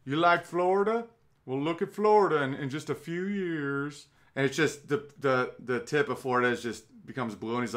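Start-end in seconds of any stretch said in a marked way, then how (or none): 0.0-4.1 mock a Southern lecturer warning the crowd; Al Gore impression. Mocking Gore warning about Florida flooding, Southern accent. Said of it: "I'm just doing a generic Southern accent".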